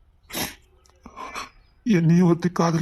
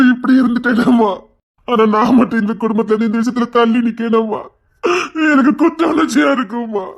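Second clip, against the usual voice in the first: guilty crying; 2 semitones higher than usual. Acted. Son breaks down with guilt.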